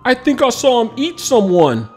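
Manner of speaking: shouted. A narrator's reading. Officer shouting about the dragon, alarmed. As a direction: call it out in alarm. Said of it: "another officer shouted".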